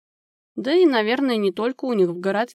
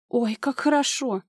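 a light happy exclaim; mild relieved joy; glad; 3 semitones higher than usual. A narrator's reading. Friend hearing the patient is better, mildly glad. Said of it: "обрадовалась Анжела".

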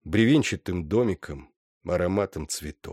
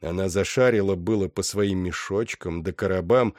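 usual speaking voice

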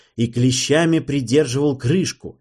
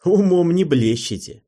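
higher and louder taunt; mocking; 7 semitones higher, 5 dB louder than usual. A narrator's reading. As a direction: tease them both. Hero scolding from window. (насмешливо)

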